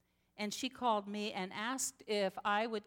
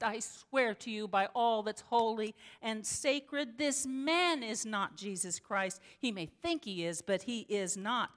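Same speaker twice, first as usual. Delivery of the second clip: firm insistence. Retold or imitated. Pastor insists to Audrey the man is not Jesus, forceful. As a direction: swear it to her, forceful. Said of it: "I hollered at her".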